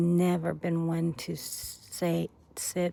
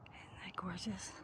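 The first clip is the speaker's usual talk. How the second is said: hushed awe; 19 dB quieter than usual. Real, not acted. Admiring view, hushed.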